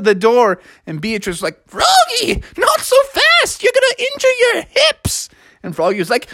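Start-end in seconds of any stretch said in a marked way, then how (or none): 1.7-5.3 high-pitched fussing warning; urgent, high character voice; acted scolding. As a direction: scold him like a worried Beatrice. Beatrice scolds Froggy for running.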